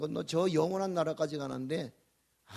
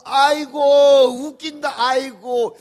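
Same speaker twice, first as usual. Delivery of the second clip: much louder, higher laughing outburst; laughing exclaim; 9 semitones higher, 17 dB louder, much slower than usual. Acted. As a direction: burst out at how funny it is. Preacher laughs at elders.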